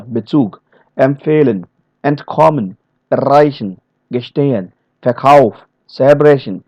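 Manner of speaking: light first syllable in "Bezug, empfehlen, entkommen"; unstressed prefixes. Shown as a demonstration. Trainer listing German verbal prefixes, unstressed prefixes. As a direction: skim the prefixes of "erreichen, gestehen, Verkauf". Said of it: "prefixes which will never be stressed".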